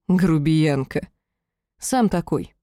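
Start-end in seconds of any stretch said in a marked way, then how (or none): 0.1-1.1 slow, fondly teasing tone; understated tenderness, drawn out; almost tender. A narrator's reading. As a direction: say it slowly, with mild affection. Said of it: "тихий смех и почти ласковое".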